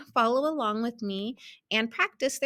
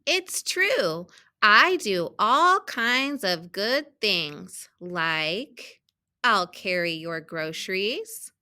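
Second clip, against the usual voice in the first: measured storybook reading with stressed key words; children's story read-aloud; much slower than usual. A narrator's reading. Teacher reading a picture book to students, storybook read-aloud. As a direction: read it out carefully for young readers.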